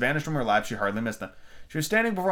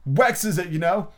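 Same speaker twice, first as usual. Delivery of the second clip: frog voice; 5 semitones higher, 3 dB louder, slower than usual. Acted. Frog speaks.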